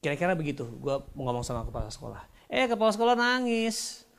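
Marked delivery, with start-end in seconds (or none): 2.5-4.1 mock astonishment. Comic surprise at the principal crying.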